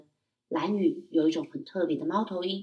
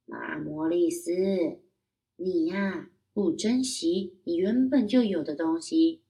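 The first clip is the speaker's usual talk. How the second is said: lightly voiced owl; 3 dB louder than usual. Owl speaks to the boy.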